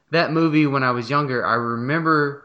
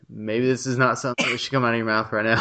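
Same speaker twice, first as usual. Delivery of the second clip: laughing to tears; 4 semitones lower, faster than usual. Real, not acted. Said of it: "I can't stop crying".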